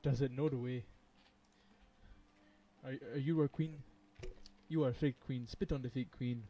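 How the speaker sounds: lightly voiced meme character; a hint of a meme-character impression; Ugandan Knuckles. Streamer quoting a favorite meme, lightly put-on voice. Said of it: "Ugandan Knuckles was my favorite".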